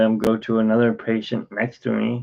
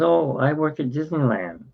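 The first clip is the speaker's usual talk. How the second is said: wife chiming in; 6 semitones higher than usual. Retold or imitated.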